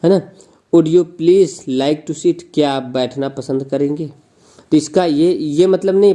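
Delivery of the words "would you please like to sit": polite request. Shown as a demonstration. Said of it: "नम्र निवेदन प्रकट करने के लिए".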